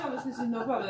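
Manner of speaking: laughing through a cheerful yes; laughing agreement. Retold or imitated. Guest laughing as she retells saying yes to Miss Christine.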